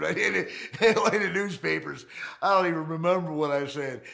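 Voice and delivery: ordinary talk, nothing marked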